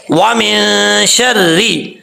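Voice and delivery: وَمِن شَرِّ slowly, the noon hidden in the nose; nasal ikhfa. Shown as a demonstration. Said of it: "آواز کو ناک میں چھپا کر پڑھیں گے". (وَمِن شَرِّ میں نون کو ناک میں چھپا کر)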